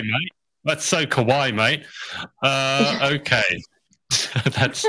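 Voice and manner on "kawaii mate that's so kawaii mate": Australian kawaii. Retold or imitated. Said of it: "don't laugh at my accent".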